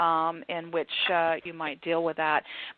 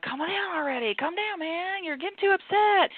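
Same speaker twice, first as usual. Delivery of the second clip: mock dismissive; 11 semitones higher than usual. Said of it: "and you're like".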